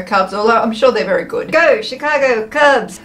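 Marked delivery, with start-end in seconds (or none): 1.5-3.0 slow drawn-out mock sports cheer. Cheering on the Cubs while wearing their shirt, mock cheer. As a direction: cheer the team on, stretched and hammy. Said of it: "don't know what that was".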